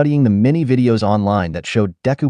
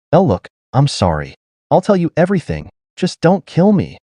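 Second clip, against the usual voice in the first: pleading; 7 semitones higher than usual. Acted. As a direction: beg for your life, voice rising. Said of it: "pleaded the monster".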